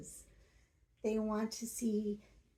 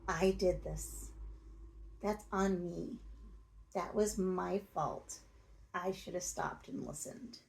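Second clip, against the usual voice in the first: owning it sincerely. Shown as a demonstration. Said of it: "Just say".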